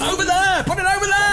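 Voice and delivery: high-pitched mock yell; imitated shouting. Co-host copying the angry man's directions, mock shouting. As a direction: mimic someone calling out orders.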